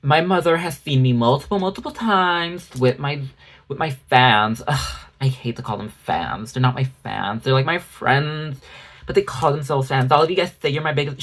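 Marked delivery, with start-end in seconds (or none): 0.0-10.1 a touch of smug, humble-bragging voice; mocking her humble smugness. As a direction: purr it with fake modesty. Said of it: "The humble smugness of her being like".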